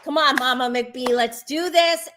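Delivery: mock ringside cheer for a mom; retold hype, rooting for a showdown; hyped up. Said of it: "I'm getting all hyped".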